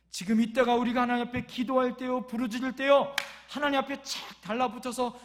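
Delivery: loud, urgent pulpit call; exhorting preaching. Real, not acted. Preacher calling believers to cry out in prayer, forceful exhortation. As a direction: press every phrase on the congregation.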